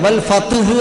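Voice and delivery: "ഫത്ഹ്" said clearly with vowelless t before h; sukun on t. Shown as a demonstration. Teacher spells out "ഫത്ഹ്" for students, t without a vowel. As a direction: stop on the t in "ഫത്ഹ്". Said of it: "ത് എന്ന് സുക്കൂനാണ്".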